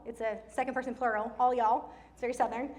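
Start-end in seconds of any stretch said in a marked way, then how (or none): 1.4-1.9 "all y'all" said louder for emphasis; loud, inclusive "all y'all"; emphatic address. Retold or imitated. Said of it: "he emphasizes it".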